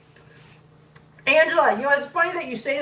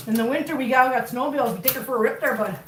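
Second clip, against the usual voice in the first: folksy northern Minnesota accent; faster than usual. Shown as a demonstration. Joking about winter snowmobiles back home, in a Minnesota accent. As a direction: put on a casual Minnesota accent. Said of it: "That's what happens when you're from Minnesota".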